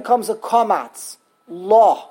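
LO drawn out and punched, open, no final s; syllable shown. Shown as a demonstration. Teacher sounding out the word for learners, drawn-out syllable. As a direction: sound out LO slowly and firmly. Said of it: "It's not los".

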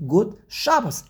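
good said as gut, Shabbos front-stressed; Yiddish greeting. Shown as a demonstration. Teacher repeating the greeting, gut with first-syllable Shabbos. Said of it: "they're speaking to you".

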